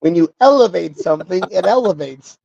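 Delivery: lightly voiced political speech cadence; mock a politician's looping phrase; Kamala Harris impression. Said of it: "Kamala Harris".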